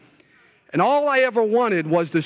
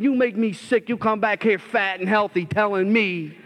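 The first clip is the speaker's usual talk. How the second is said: higher, resentful outburst at his clean friend; bitter attitude; 4 semitones higher than usual. Retold or imitated. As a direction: spit out the envy and self-pity, pitched up. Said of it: "I got an attitude and I said".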